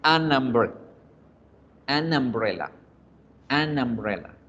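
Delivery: an umbrella joined as one word, "anambrela"; fluid linking. Shown as a demonstration. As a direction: model an umbrella with the N flowing into an A. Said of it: "para que exista esa fluidez".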